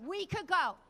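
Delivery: high, loud mock outrage; husband impression. Wife mimicking her husband in security line, loud exasperated rant. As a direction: imitate a complainer ranting in a queue. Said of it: "Vinny starts with his".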